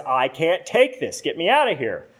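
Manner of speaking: a clay vase demanding release from the kiln in a bold shout. Acted. The vase shouts boldly to the potter from the hot oven. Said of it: "I shouted in a bold voice".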